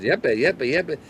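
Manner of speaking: yappy little dog sounds; dog yapping. Retold or imitated. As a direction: yap it out like a puppy. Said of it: "She is".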